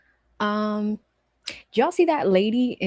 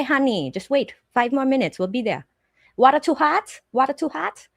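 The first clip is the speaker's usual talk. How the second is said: put-on Vietnamese accent; 2 semitones higher than usual. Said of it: "they're like".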